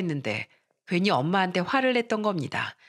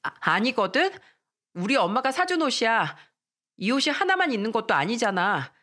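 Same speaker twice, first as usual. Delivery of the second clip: mildly flustered, defensive; a hint of stammering embarrassment; flustered denial; 3 semitones higher than usual. Girl answers taunting classmate, mildly flustered. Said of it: "당황한 목소리로".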